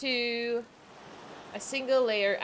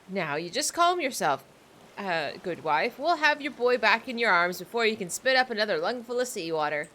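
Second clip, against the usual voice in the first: put-on pirate accent; 2 semitones higher than usual. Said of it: "I'm trying to sound like a pirate".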